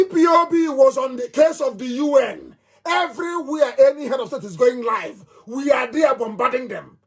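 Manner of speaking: high, ringing boast about bombarding them; shouting boast. Real, not acted. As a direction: shout it out proudly, pitch way up. Boasting to his online audience.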